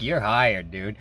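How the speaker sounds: enthusiastic hiring. Retold or imitated. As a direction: hand out the job on a high. Boss hiring him on the spot.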